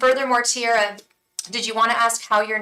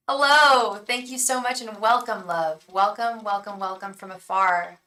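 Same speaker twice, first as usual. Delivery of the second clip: British-tinged Australian accent. Shown as a demonstration. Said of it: "Sounds a little British".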